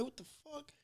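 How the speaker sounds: high, hushed mock disbelief; shocked reaction. Meeting a Detroit fan in Colombia, hushed high disbelief. His own retold reaction.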